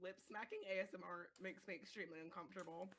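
soft whispered complaint; hushed ASMR-style grumble; mock ASMR whisper. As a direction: whisper your discomfort into the mic. Joins in mocking the ASMR.

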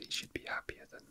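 ordinary talk

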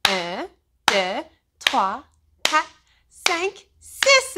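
building count. Shown as a demonstration. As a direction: start calm and build each number up. French clap count building.

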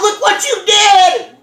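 barely lifted, mostly just said; mild retold yell. Scolding the friend who hit the tires, a mild mock yell. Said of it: "And then I yelled".

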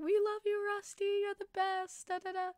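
a hint of a gushing fan calling out. Fans gushing, retold.

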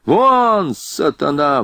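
sudden high-pitched outburst; angry roar. A narrator's reading. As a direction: roar an order to get out. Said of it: "вдруг взревел поручик".

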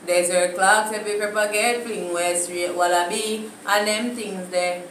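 Jamaican Patois. Shown as a demonstration. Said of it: "my time".

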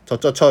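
저저처 said as jeo-jjeo-cheo, no y-glide; 저저처 without any i or y sound; simple vowel. Shown as a demonstration. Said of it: "이렇게 한다는 거죠".

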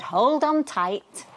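slow, gentle warning; slow and careful. Acted. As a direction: draw it out slowly. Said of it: "he said".

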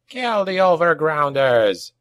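high goblin war cry; battle cry. A narrator's reading. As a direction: call the attack out to the troops. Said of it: "cried Dagskar".

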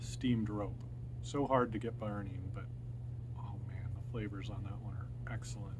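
talking around pipe stem; clenched teeth speech; pipe in mouth. Real, not acted. Seen 2: Pipe stem clenched in mouth till 6.1, later intermittent (9.5-10.6).

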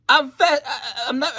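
high, loud words broken by laughter; laughing. Real, not acted. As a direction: laugh through the slip. Laughs at his own slip.

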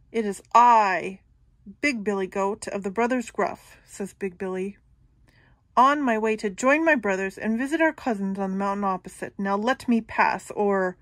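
loud, firm big goat; defiant big goat. Acted. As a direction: stand your ground against the troll. Big goat confronting troll.

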